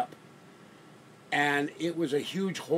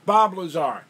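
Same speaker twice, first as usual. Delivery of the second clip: excited recall; 4 semitones higher, 10 dB louder than usual. Real, not acted. Finally recalls the forgotten name.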